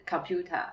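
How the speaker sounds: computer ending in a schwa, no R; British computer. Shown as a demonstration. Repeating the schwa example, computer with no R. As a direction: drop the R in computer. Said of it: "那个没有R的音".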